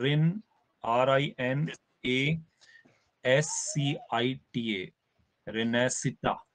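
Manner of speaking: "रिन", then letter by letter slowly, ending on "रेनेसिटा"; pronunciation demo. Shown as a demonstration. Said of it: "जब pronunciation है".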